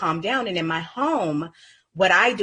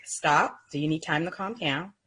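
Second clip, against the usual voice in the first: calm prompt; 3 dB quieter than usual. Shown as a demonstration. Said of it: "So it's like".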